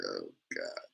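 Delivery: low, soft groan of dread; dismayed groan. Retold or imitated. Broke teen eyeing the prices, low dismayed groan. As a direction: sink into the bill shock. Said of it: "I'm like".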